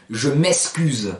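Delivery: je m'excuse slowly, with the ks of the Marseille way; imitating how people in Marseille say je m'excuse; Marseille accent. Teacher imitating Marseille speech to the class. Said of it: "Combien de fois on entend à Marseille".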